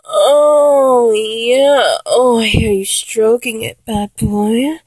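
mock porn-star moans rising into oh yeah; fake porno moaning. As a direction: ham up the porno noises over the phone. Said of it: "I can make a pretty good porno noise".

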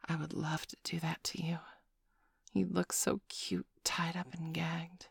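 breathy whisper in the ear. A narrator's reading. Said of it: "whisper into your ear".

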